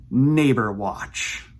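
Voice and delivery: slow, grand segment title; title announcement. Shown as a demonstration. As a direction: announce it like a show name. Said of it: "a new segment that I am calling".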